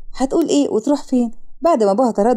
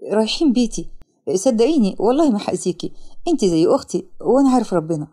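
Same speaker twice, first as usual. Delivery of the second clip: lower, lightly voiced man; reassuring young man; 3 semitones lower than usual. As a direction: reassure her in a low voice. Man reassures frightened girl. (شاب بيطمنها)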